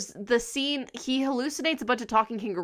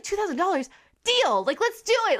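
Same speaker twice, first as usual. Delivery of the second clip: much higher, thrilled squeal of a deal; mock excited; 8 semitones higher than usual. Researcher accepting a tiny offer, mock thrilled squeal. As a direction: jump at the offer gleefully. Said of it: "she's like".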